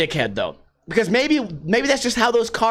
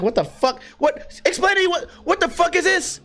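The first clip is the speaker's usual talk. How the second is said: high-pitched, exasperated confusion; hammed-up, high, frustrated disbelief; retold bewilderment; 9 semitones higher than usual. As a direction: act out being baffled by the thing in the box. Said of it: "I'm like".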